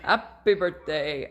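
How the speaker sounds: HAPPY without its H, as "appy"; dropped H. Shown as a demonstration. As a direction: say "appy birthday", leaving off the H. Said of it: "I lost the H".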